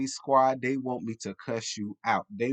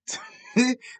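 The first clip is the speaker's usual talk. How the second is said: short high giggle; laughing at herself; high burst of laughter; 13 semitones higher, 3 dB louder than usual. Real, not acted. Laugh after catchphrase.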